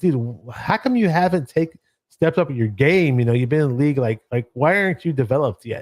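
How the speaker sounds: mock-angry, frustrated, acted-out venting. A fan recounts watching a player in the preseason, retelling an angry rant. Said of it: "I get mad because it's like".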